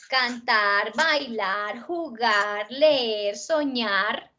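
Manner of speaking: "Cantar, bailar, jugar, leer, soñar" listed with each last syllable held; stress on final syllables. Shown as a demonstration. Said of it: "Tienen el acento en la última sílaba". ("Cantar, bailar, jugar, leer, soñar" marcando cada sílaba final)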